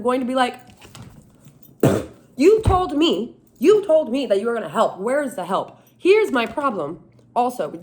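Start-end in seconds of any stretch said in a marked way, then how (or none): 2.4-5.8 mock confrontation. Confronting Jesus at his cubicle in mock anger. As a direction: confront a coworker who broke a promise. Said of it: "I'm not going to be nice to him".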